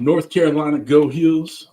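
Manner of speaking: loud, proud team cheer. Real, not acted. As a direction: shout it for the home team.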